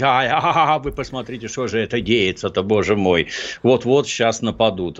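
hammed-up alarmed wail; mocking a flustered scaremonger; mock panic.

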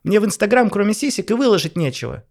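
high, loud furious shriek; shrieking wife. Acted. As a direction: scream accusations at husband. Wife screams accusations.

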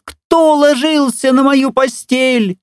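very high, slow squeaky cub; thin squeaky voice. A narrator's reading. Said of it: "запищал тонким голосом". (тонкий писклявый голосок)

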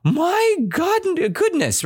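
very high delighted exclamation; proclaimed nicely. Acted. Teacher voicing what the old woman proclaimed, exclaimed. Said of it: "she proclaimed nicely".

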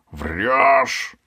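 high, loud accusing shout; high-voiced yell. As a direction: snap it in his face. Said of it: "закричал таракан высоким голосом". (высокий громкий крик)

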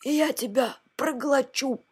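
mock-fierce storybook bark; barking dragon head. A narrator's reading. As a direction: threaten like a monster about to gulp. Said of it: "рявкнула четвёртая".

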